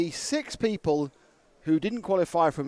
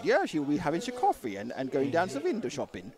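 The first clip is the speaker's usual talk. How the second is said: hammed-up Netherlander accent, softer; mock Dutch accent; 4 dB quieter than usual. Co-host teasing the commentator's pronunciation, mock Dutch accent. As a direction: put on a dodgy Dutch accent. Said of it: "a real Ne-, Nederlander sort of".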